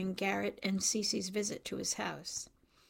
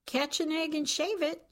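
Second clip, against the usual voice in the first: higher-pitched, wide-eyed exclamation; 8 semitones higher than usual. A narrator's reading. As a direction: read it as a mildly astonished outburst. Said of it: "wide-eyed".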